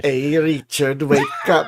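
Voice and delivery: put-on Finnish accent, a bit Scottish; mock Finnish accent. Counsel waking Richard for coffee, mock Finnish accent. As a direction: attempt a Finnish accent, playfully. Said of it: "they gotta speak in Finnish accents".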